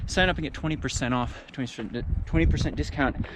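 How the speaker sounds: panting between words; breathless from the climb; out of breath. Real, not acted. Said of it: "Oh, I'm so out of breath".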